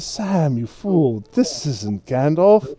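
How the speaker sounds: lightly voiced tipsy scolding; sloshed hobbit. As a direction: scold your servant with mild drunken reproach. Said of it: "looks a little sloshed".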